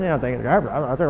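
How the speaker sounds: low, sulky mumble about a sibling; grumbling kid. Acted. Kid complaining sister skips the garbage, grumbling. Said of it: "you hear all the way out the door".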